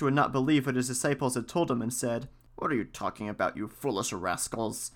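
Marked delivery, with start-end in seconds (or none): 2.6-4.9 lightly voiced priest, lower and softer; low, quiet reproof with a hint of sternness; scolding priest. A narrator's reading. Priest disbelieves his foolish disciples, mildly scolding.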